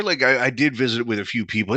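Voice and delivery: ordinary delivery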